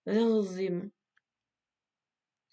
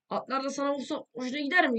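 higher, sharper taunt; mocking taunt; 5 semitones higher than usual. Real, not acted. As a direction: needle him harder. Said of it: "repeated taunt".

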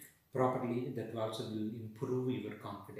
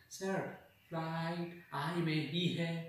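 a lightly voiced student answering, a bit higher; imitating a student; 5 semitones higher, slower than usual. Teacher mimicking a confused student answering "flight". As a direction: mimic a student giving the wrong example. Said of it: "don't give me a sound called flight".

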